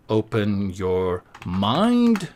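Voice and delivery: very slow, drawn-out "Open your mind" like a guru; dramatic mystic intonation. Pretend. Typing a retreat slogan for viewers, slow mock-mystical delivery. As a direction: stretch every word like a mystical spa ad.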